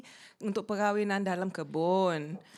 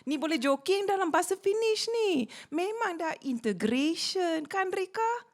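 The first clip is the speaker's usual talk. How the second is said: mock pride; 8 semitones higher than usual. Mock proud integration boast.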